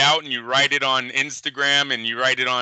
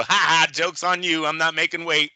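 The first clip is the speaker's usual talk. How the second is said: mock gloating; 6 semitones higher than usual. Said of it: "They go".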